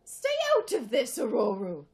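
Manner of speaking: loud, high-pitched barked order. Acted. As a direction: bark it to shut her out. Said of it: "Logan barked".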